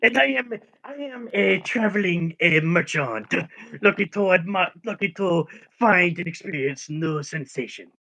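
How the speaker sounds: lightly voiced goofy traveller with a grin; halting, pleased-with-himself merchant; doofy grinning merchant. Traveling merchant introducing himself at the tavern, doofy grinning delivery. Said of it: "the doofiest grin as he says it".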